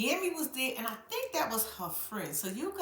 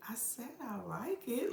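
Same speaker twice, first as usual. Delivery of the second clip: curt insistence; 8 dB quieter than usual. Retold or imitated. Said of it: "Gammy was like".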